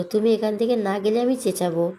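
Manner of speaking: ordinary delivery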